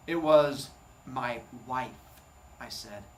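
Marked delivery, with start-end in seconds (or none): 0.1-2.0 slow, with weight on wife; slowly, putting emphasis on wife to cool the starlet off; stress on wife. Retold or imitated. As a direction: lean hard on the word wife. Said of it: "emphasis on the last word".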